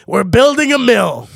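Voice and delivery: a slow, loud mock announcement; intruding developer. Guy showing up at the potato farm, mock-brash announcement. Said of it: "the guy that would show up".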